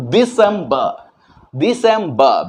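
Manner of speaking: "दिसंबर" as di-sem-ba, no r; British December. Shown as a demonstration. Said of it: "British English दिसंबर".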